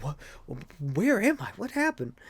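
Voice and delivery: a hint of a groggy hero waking up; dazed Daredevil. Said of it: "Daredevil's like".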